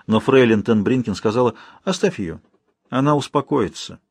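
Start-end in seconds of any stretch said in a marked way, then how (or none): none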